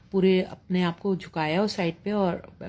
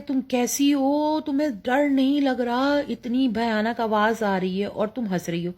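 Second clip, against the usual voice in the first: frightened disbelief; 4 semitones higher than usual. Retold or imitated. Frightened mother scolds laughing daughter.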